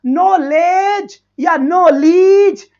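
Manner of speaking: knowledge drawn out slowly, two ways; stretched-out pronunciation test; trying two pronunciations. Shown as a demonstration. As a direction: slowly weigh नॉलेज against नॉलेज. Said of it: "अब इसे बोलेंगे क्या?".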